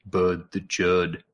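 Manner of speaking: slow, savoring "Bud the Chud"; a fond, slowed-down title drop; drawn-out name. Real, not acted. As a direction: stretch every word out with relish. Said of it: "drawn-out name".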